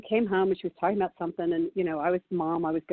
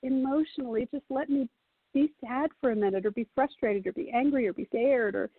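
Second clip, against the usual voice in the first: put-on pleading teen; 4 semitones higher than usual. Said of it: "But it's like".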